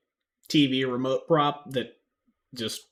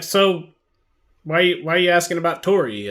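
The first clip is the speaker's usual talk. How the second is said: suspicious NPC voice; 6 semitones higher, 11 dB louder than usual. Acted.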